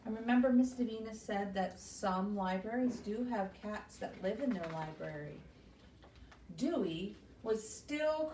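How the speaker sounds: put-on reading a picture book to children; gentle storytime read-aloud; story reading. Librarian reading a story to kids, storytime voice.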